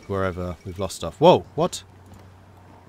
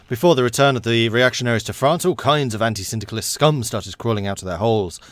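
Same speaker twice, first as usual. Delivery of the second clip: declaimed propaganda bulletin; dramatic event read; 2 semitones higher, 6 dB louder than usual. Acted. Game player reading event text aloud, dramatic read. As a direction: read it out like a public denouncement.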